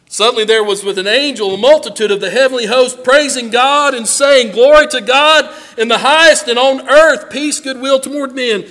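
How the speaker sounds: loud, ringing preaching of the verse; proclaimed praise. Acted. Preacher proclaiming the angels' song to the church, loud. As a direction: proclaim it like the heavenly host.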